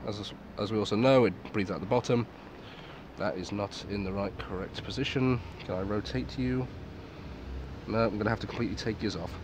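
muffled behind a rubber mask; talking while wearing a respirator; through a gas mask. Real, not acted. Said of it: "Quite interesting breathing resistance".

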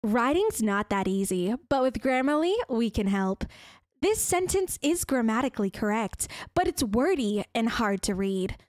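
imitation of a Grammarly advert narrator; put-on ad read. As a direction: do a tidy commercial voiceover. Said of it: "This is my favorite one to do".

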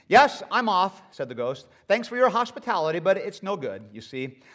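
lightly voiced hurried ghost brushing it off. Ghost answers the angel.

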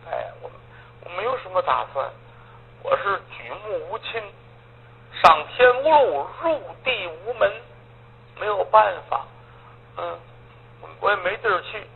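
sorrowful but understated, no tears in the voice; mild lament. Acted. Orphan tells the old man he has nowhere to go, mild lament.

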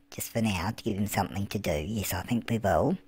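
hushed aside whisper. Real, not acted. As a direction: whisper it to yourself. Unvoiced whisper.

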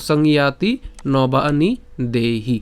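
সংয়াতি, নবানি, দেহি word by word; pronunciation demo. Shown as a demonstration. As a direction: model সংয়াতি with a clear "ya". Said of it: "জফলা উচ্চারণটা আমরা ইয়র মতোই". (সংয়াতি নবানি দেহি আলাদা করে স্পষ্ট উচ্চারণে)

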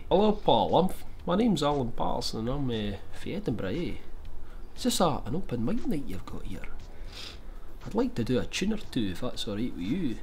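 lightly put-on Edinburgh accent, an old man introducing himself; a hint of an Edinburgh pensioner at an open mic. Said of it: "I can do, like, an Edinburgh accent".

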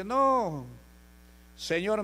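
high-pitched imitation of a daughter; pleading daughter. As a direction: raise the voice high, imitating her plea. Voices the daughter's plea.

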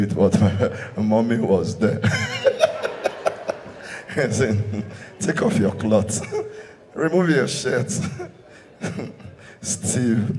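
breaking up with laughter between lines; can't stop laughing while telling it; laughing through it. Real, not acted. Comedian to the crowd, cracking up laughing.

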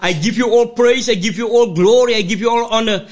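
fervent church prayer, rhythmic and pleading; praying aloud. Acted. Pastor praying over the word before preaching, fervent prayer. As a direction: pray over the congregation with steady fervour.

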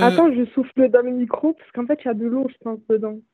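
muffled, wet microphone sound; muffled mic. Real, not acted. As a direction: talk through a muffled mic. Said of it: "C'est étouffé".

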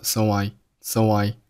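"so" gliding into "I"; linked "so I". Shown as a demonstration. Teacher showing how "so I" links together. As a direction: join "so" and "I" as one word. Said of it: "So和I又连读成了so I".

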